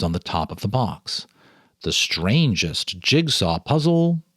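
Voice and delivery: calm, measured storyteller reading; story narration. A narrator's reading. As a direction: read it like a ghost story by lamplight. Reads ghost story aloud.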